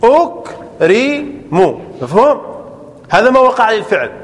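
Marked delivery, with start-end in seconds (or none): 0.0-1.8 أكرم drawn out very slowly, syllable by syllable; teacher repeating أكرم at a crawl to show its vowels; slowed teaching demo. Shown as a demonstration. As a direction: stretch أكرم so the class hears each vowel. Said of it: "انظر".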